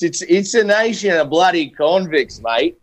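a hint of Aussie on bloody convicts, mate; lightly put-on Australian accent; playful Australian twang on mate; mock Australian. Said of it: "you're going British, mate".

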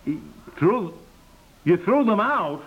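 rising shock at the news; husband aghast at wife's cleanup. Acted. Husband aghast at lost bottles.

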